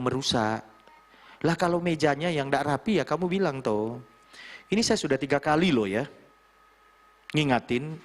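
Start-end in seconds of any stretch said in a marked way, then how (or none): 3.6-7.9 firm. Shown as a demonstration. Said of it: "Bahasamu tegas".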